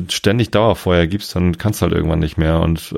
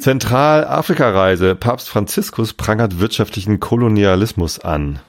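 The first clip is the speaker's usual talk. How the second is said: news read; 3 semitones higher, slower than usual. Acted. Reading news headline aloud.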